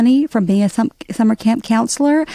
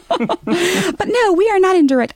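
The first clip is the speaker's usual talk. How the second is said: laughing; 9 semitones higher than usual. Real, not acted. Laughing after own joke.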